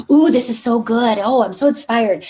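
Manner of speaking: lightly hammed-up excitement; a touch of playful, exaggerated delight; mock inspired gushing. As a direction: gush like a reader briefly fired up. Acts out an inspired reader.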